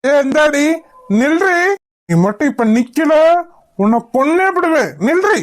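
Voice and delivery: very high, screaming threat; threatening scream. Acted. Stalker screaming a death threat at the fleeing girl, very high scream. Stranger threatens to kill her.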